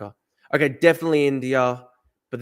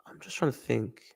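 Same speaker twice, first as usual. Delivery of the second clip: whisper; 3 semitones lower, 8 dB quieter than usual. Real, not acted. Thinking aloud during a hard round.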